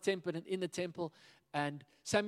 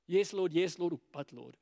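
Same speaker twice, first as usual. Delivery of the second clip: wavering answer; 3 dB louder than usual. Shown as a demonstration. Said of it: "wavering yes and but".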